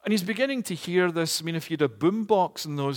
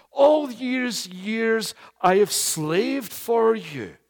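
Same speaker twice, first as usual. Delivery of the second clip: bitter requote; 6 semitones higher, 4 dB louder, much slower than usual. Acted. Preacher requotes brother.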